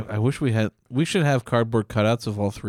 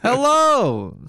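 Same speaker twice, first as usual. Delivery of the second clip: high, loud put-on old man greeting; old Chinese man voice; 13 semitones higher, 4 dB louder, much slower than usual. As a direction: play an old man's canned greeting. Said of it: "Chinese voice insertion".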